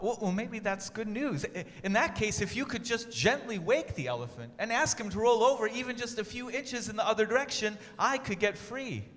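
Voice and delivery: a small pleading mouse. A narrator's reading. Desmond the mouse speaks.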